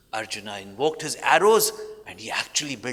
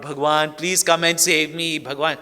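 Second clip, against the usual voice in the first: calling out for help; 3 semitones higher, 6 dB louder than usual. Retold or imitated. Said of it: "He calls out".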